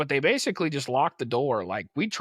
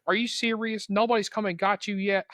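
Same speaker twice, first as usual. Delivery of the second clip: higher-pitched mock exasperation; imitated pissed-off attendants; 6 semitones higher than usual. Teller imitating flight attendants finding a stranded kid, annoyed. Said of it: "the flight attendants were pissed".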